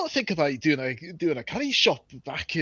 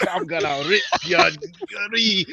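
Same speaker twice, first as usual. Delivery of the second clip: angry dwarf; 4 semitones higher, 3 dB louder than usual. Acted. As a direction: roar the threats, dragging each word. Dwarf insults elf.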